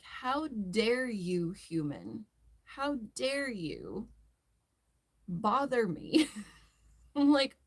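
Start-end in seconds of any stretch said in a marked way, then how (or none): 0.0-6.3 slow, drawn-out mock outrage; sassy dog voice. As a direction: play the offended diva pet.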